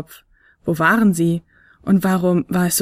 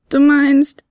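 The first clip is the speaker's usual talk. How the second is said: higher, louder interruption from a small flute; urgent little flute; 8 semitones higher, 5 dB louder than usual. Acted. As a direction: cut in, alarmed. Fionella cuts in.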